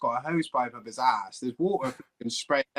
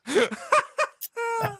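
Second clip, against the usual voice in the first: high, cracking fit of laughter; real laughing fit, nearly crying; helpless laughter. Real, not acted. Storyteller cracking up at his own tale, laughing high.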